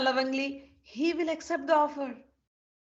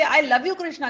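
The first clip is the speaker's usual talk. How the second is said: loving devotee; 6 dB louder than usual. Shown as a demonstration. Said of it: "If you say".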